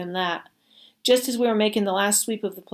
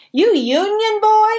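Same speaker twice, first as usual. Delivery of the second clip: much higher, loud, slow taunt; jeering soldier; 13 semitones higher, 8 dB louder, slower than usual. Acted. Soldier jeering at the captured boy, much higher and slow. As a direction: jeer it out like a cruel soldier. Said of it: "one jeered".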